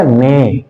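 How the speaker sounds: "ने" said alone as one drawn-out syllable; sounded-out syllable. Shown as a demonstration. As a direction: sound out "ने" by itself for a pupil. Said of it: "ये N ए क्या हो गया". ("ने" को अलग अक्षर की तरह खींचकर बोलना)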